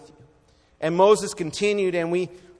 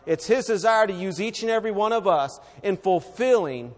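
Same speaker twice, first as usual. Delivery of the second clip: louder repeat stressing desire; louder preaching; 2 semitones higher than usual. Shown as a demonstration. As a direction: lift it up, press on desire.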